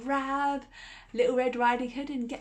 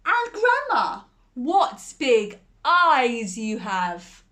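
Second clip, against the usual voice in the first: put-on little girl; 2 semitones higher, 8 dB louder, slower than usual. Girl questions wolf.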